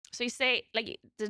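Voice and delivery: ordinary delivery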